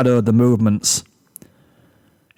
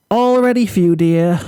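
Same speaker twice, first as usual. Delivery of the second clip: much higher, sugary forced cheer; strained smile; 7 semitones higher, 3 dB louder than usual. Acted. Rarity to Fluttershy, welcoming her with high forced cheer. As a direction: grin through clenched effort. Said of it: "strained to maintain a smile".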